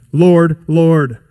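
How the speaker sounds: both words of "Lord, Lord" said firm and falling; emphatic "Lord, Lord", each word landing; emphatic profession. Retold or imitated. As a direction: insist on "Lord, Lord" with confidence. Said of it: "It's emphatic. It's confident".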